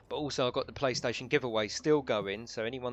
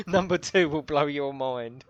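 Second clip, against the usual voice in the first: clickbait video narrator; 4 semitones higher, 9 dB louder than usual. Pretend. Clickbait joke, slower and louder.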